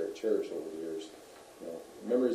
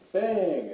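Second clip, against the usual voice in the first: higher, louder "bang"; imitated gunshot; 10 semitones higher, 8 dB louder than usual. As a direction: punch it out like a shot.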